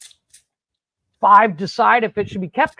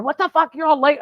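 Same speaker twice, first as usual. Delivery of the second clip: mock scream; 8 semitones higher than usual. Girlfriend greeting her very late boyfriend, mock screaming. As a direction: imitate an upset girlfriend screaming without full volume. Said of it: "she comes out screaming".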